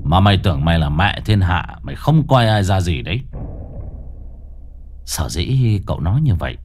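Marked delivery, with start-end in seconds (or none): 0.0-3.2 lower, scornful master; mock the ghost's arrogance; contemptuous taunt. Exorcist scolding the proud ghost, low and scornful. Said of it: "Cậu bảo".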